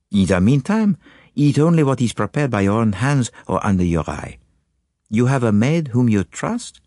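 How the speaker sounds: calm Belgian sleuth probing gently; Poirot. Acted. Poirot questions his anxious client, calm and probing.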